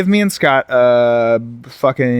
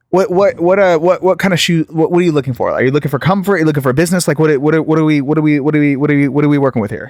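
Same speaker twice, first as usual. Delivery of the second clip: mock angry clerk; 3 semitones higher than usual. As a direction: fire off questions like an irritated salesman. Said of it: "you seem very angry".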